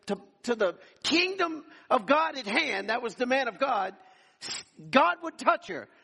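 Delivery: rising sermon fervor on the healing; full-force preaching. Acted. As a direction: preach it to the back row. Preaching the healing testimony emphatically.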